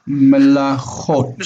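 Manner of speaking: melachot with a throaty ch in the middle; guttural ch. Shown as a demonstration. Teacher modelling a Hebrew word for a struggling student, guttural ch in melachot. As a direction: sound out melachot, scraping the ch in the throat.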